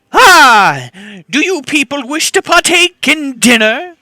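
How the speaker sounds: high, eager little imp host; imp servant voice. Acted.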